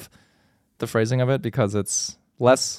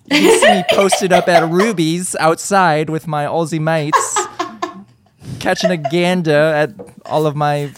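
mock Australian; 4 semitones higher than usual. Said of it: "Said no Australian person ever".

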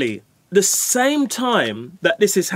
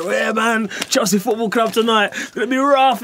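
hyped friends; 5 semitones higher than usual. Retold or imitated. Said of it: "everybody's like that".

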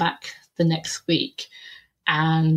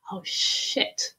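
under-the-breath expletive; hushed inner dread; 3 semitones higher, 6 dB quieter than usual. Retold or imitated. Teller replays her thought as an angry boss closes in, hushed dread. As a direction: quietly realise trouble is coming.

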